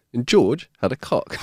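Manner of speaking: punchline broken by laughter; can't hold back the laugh; laughing through words. Real, not acted.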